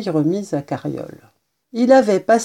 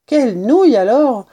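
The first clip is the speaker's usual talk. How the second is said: higher, louder sing-song taunt; mocking jeer; 5 semitones higher, 5 dB louder than usual. A narrator's reading. Kitten brother taunts Sansonnet, mocking. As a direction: jeer with a big swooping tune. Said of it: "railla Rossignol".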